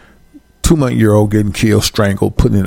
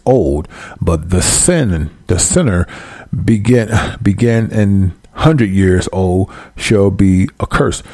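slow, deliberate Bible reading; preacher reading scripture very slowly; slower than usual. Acted. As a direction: draw out each phrase of the verse. Reads next verse slowly.

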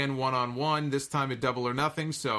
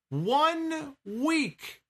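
much higher, incredulous repeat; exasperated disbelief; 12 semitones higher than usual. Real, not acted. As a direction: pitch it way up in exasperation. Exasperated repeat about quick return.

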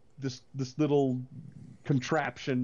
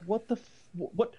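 exasperated outburst; 8 semitones higher, slower than usual. Retold or imitated. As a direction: vent at the movie in disbelief. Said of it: "and I'm like".

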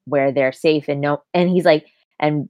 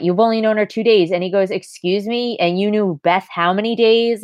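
indignant retort; 5 semitones higher than usual. Retold or imitated. Acted quarrel between two brothers.

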